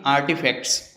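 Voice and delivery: आर्टिफैक्ट्स with a full Indian T, the form to avoid; Indian accent. Shown as a demonstration. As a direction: Indian English आर्टिफैक्ट्स, hard T. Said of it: "ना कि". (भारतीय लहजे में आर्टिफैक्ट्स)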